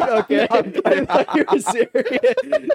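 high, laughing through the words; laughing relief. Real, not acted. Friend realising the treadmill story was a joke, laughing.

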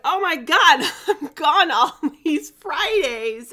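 high, loud, laughing exclamation; retold panic. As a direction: exclaim it in mock alarm, half laughing. Panicked realisation about travel dates, retold.

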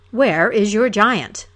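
slow, loud challenging call; a slow, loud, demanding cry; hero's cry. Acted. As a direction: call it out to find the giant. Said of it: "the hero cried".

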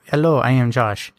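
stiff robotic monotone. Shown as a demonstration. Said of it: "I feel like a robot at times".

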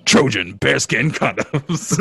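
slow, drawn-out announcer delivery; mock sponsor read. Host faking an ad, slow radio announcer voice. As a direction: savour it like a fake ad, near laughter.

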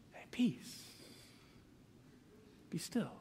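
barely voiced, calming whisper; gentle hushing whisper. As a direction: hush the waves as if soothing a dog. Imagined Jesus gently calming the waves.

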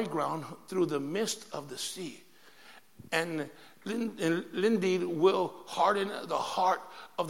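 slow, measured reading with phrase breaks; scripture reading. Acted. Preacher reading the Bible to the congregation, scripture reading. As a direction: read the verse out slowly and deliberately.

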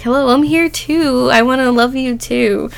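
playfully jealous, begging to be noticed; a little jealous. Retold or imitated. Owner to dog who follows her ex, jealous plea. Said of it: "I think I got a little jealous".

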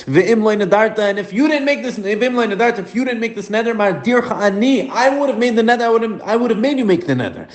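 high, eager praise that keeps climbing; husband warmly praising his wife's vow. Retold or imitated. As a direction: gush over her vow like a proud husband. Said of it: "He tells her".

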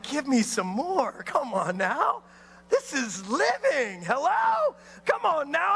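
hammed-up hungry enthusiasm. Eager preacher acting out wanting more.

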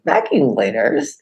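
understated bafflement; puzzled aside. Retold or imitated. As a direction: repeat it slowly in mild disbelief.

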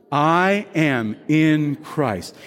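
very slow, spaced-out declaration; leading a recitation. Shown as a demonstration. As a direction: draw out each word for all to join. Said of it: "Say it with me".

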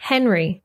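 Henry as HEN-ree, English r; English version. Shown as a demonstration. Teacher contrasting names between languages, English Henry. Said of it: "followed by the English version".

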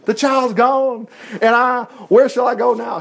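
weeping lament. Acted. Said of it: "He wept to his brothers".

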